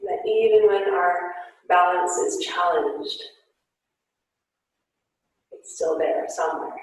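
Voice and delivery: guided yoga instruction. Acted. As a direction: gently guide the class through poses. Guided yoga class cues.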